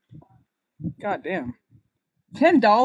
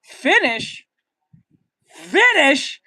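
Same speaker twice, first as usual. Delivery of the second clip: incredulous; 5 dB louder, much slower than usual. Acted. Incredulous at "haven't finished.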